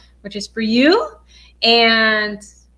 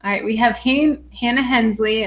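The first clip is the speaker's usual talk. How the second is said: ordinary talk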